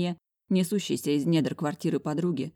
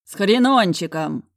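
louder, slow furious yell; 3 semitones higher, 7 dB louder, slower than usual. A narrator's reading. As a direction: bellow it in panic. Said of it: "заорал я".

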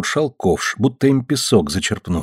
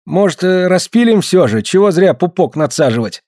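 last hope; 7 semitones higher than usual. Acted. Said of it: "с последней надеждой спросил".

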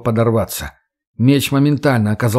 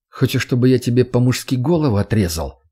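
calm tone. Acted. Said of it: "спокойным тоном ответил Макс".

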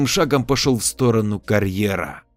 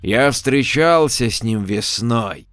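annoyed dismissal; 3 semitones higher than usual. Acted. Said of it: "недовольно отмахнулся".

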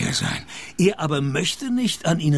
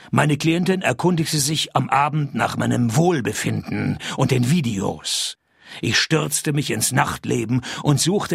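dry, hardboiled detective narration; lightly voiced noir narrator, measured and wry. A narrator's reading.

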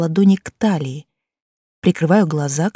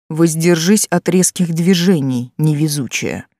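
slow, mocking snide taunt. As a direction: tease her snidely and slowly. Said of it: "доносится ехидный голос за спиной". (ехидный голос за спиной)

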